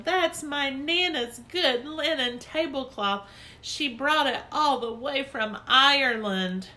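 high, slow, dismayed complaint; upset scolding. Acted. Lucille scolding about tablecloth.

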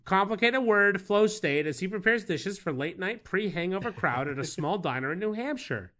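formal reading. Acted. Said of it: "You sure can deliver the written word".

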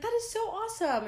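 high, loud, quick gush; squealy, rapid praise; sweet gushing. Retold or imitated. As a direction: imitate a girl thrilled for you. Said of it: "she was just so sweet".

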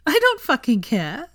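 high, loud, slow and giddy; gleeful chortle. A narrator's reading. Hermione grinning broadly at Draco, gleeful chortle. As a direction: crow it high with glee. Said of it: "she chortled".

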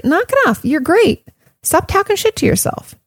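high, brisk telling-off of a friend; firm callout. Pretend. To a friend who talks themselves down, a high firm callout. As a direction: snap them out of it, kindly but firmly. Friend calling out self-hate.

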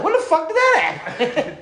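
high, laughing through the question; can't get it out without cracking up; laughing disbelief. Retold or imitated. Waking from a seizure and asking the guards, laughing.

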